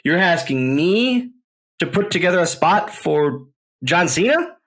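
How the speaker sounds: overwhelmed, can't believe the ask; stunned disbelief. Retold or imitated. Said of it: "And I'm going".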